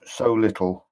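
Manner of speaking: hesitant, haunted memories; a dazed ghost struggling to remember; ghostly general, troubled. Acted. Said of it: "And he says".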